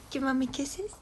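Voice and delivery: high soft whisper. Real, not acted. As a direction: whisper for kisses from the dog. Asking dog for kisses.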